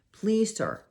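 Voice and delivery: high, urgent plea; pleading. A narrator's reading. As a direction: beg for help. Girl pleading with police chief.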